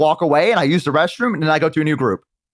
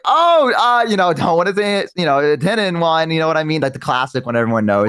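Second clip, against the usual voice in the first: bluffing. Retold or imitated. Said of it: "And I'm like".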